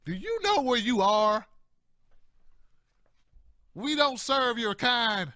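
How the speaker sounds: slow, cold hostile bouncer voice; menacing biker. Retold or imitated. Biker club regulars confronting a black newcomer, menacing. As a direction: hostile redneck warning off a stranger. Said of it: "they're like".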